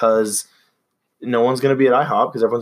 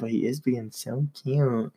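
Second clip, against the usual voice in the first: overwhelmed by cuteness; 7 dB quieter, slower than usual. Real, not acted. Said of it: "I have cute aggression still".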